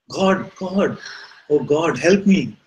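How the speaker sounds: high, drawn-out plea; acted begging. Man on cliff prays to God, acted begging. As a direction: beg God for rescue, hammed-up. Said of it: "keeps begging and praying for God".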